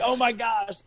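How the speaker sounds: high-pitched, acted-out amazement; thrilled disbelief. Reacting to the text asking to meet, thrilled disbelief. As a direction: replay the giddy shock in a high voice.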